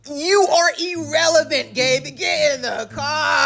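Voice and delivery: slow, firm shouted command; telling Gabe to get in the car, firm shout; stern order. Acted. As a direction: order him into the car, no arguing.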